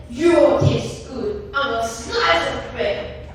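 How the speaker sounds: slow, lightly voiced hungry monster; a hint of monster menace. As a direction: savour it slowly like a beast. Gruffalo threatens to eat mouse.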